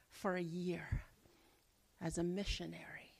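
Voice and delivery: whispered, barely voiced. Real, not acted. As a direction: drop to a breathy whisper. Whispered detail.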